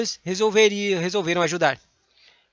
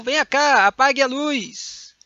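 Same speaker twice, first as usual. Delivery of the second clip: commanding; 6 semitones higher, slower than usual. Shown as a demonstration. Teacher acting out an imperative, calling sharply. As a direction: call someone over and give the order. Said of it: "Verbo no imperativo".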